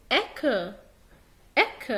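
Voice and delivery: اك with a firm K sound; isolated اك, C pronounced like K. Shown as a demonstration. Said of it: "هتنطقه حرف K".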